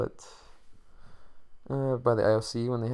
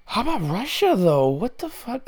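very high-pitched, loud disbelief; incredulous exclamation; 13 semitones higher, 4 dB louder than usual. Real, not acted. Podcaster bringing up Russia to listeners, incredulous exclamation. Mock outrage at Russia's results.

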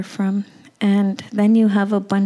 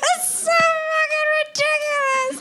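much higher, cracking cry-laugh; laughing through tears. Real, not acted. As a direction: talk while laughing and half crying. Laughing and crying at the absurdity.

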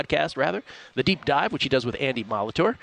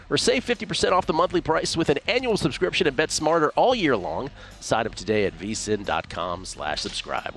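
ad read. Acted. Reads a promo spot.

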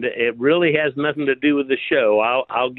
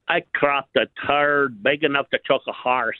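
put-on Scottish accent. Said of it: "with that dialect".

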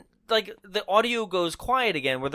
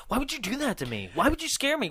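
high, quick imitation of complaining; mock indignant; 7 semitones higher, 4 dB quieter, faster than usual. Imitating the girl scolding her boyfriend, mock indignant. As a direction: play up the wounded protest, pitched high. Retold argument after being scared.

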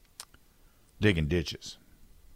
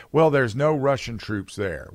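sly denial; 5 semitones higher, 3 dB louder, slower than usual. Retold or imitated. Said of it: "Wink, wink".

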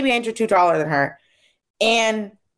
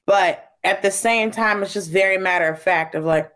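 ordinary delivery

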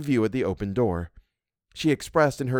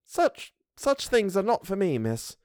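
sadly; 8 semitones higher, slower than usual. A narrator's reading. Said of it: "She shook her head sadly".

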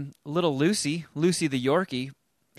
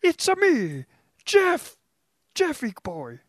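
high cartoon Italian accent; a-me style Italian, up high; Italian impression of Jeff; 13 semitones higher, 4 dB louder, slower than usual. Host doing co-host Jeff as an Italian, high cartoon accent. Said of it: "can you do an impression of me as an Italian".

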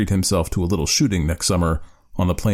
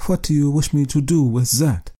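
cross; 6 semitones higher than usual. A narrator's reading. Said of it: "crossly, muttering".

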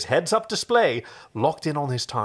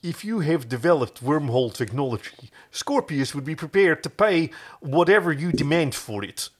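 bad Dutch accent; 2 semitones higher than usual. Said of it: "I'm doing a really bad Dutch accent".

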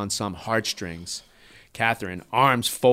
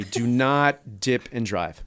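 mock PSA warning; much slower than usual.

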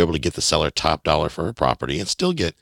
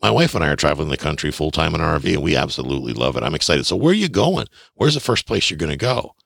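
upbeat chatter rising into eager questions; enthusiastic. Shown as a demonstration. Buyer building rapport with the seller, enthusiastic. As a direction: show keen interest to build rapport. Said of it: "I'd be enthusiastic and say".

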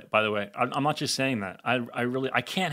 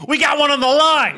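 high, loud holler; excited angler; 12 semitones higher, 8 dB louder than usual. Acted. Host likening the guest to a catch, excited holler. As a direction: call out like you've hooked a fish. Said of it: "it's like you're fishing".

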